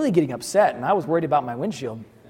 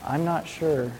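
quiet, lower musing; reflective; 3 semitones lower, 6 dB quieter than usual. Retold or imitated. The father admits doubt about his daughter, quiet and musing. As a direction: mull it over half to yourself. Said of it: "in a reflective moment".

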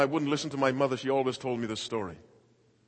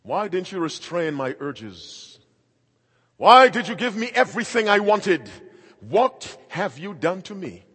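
put-on accusing grown child; 12 semitones higher, 17 dB louder than usual. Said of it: "your child to confront you".

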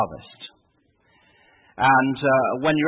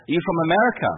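lightly voiced nurse, raised pitch; eager nurse's voice; 4 semitones higher, faster than usual. Nurse leaning over gasping patient, lightly voiced eagerness. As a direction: lift the question high like a keen nurse. Nurse quizzing him as he gasps.

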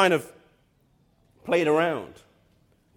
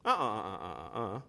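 scolding no-no; 10 semitones lower, 10 dB quieter, faster than usual. Real, not acted. Preacher refuting a view.

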